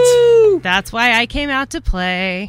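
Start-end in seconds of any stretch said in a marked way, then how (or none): 0.0-0.6 high, loud whoop; cheer. Real, not acted. Guest cheers National Bourbon Month with a loud high whoop. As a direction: let out a big party whoop.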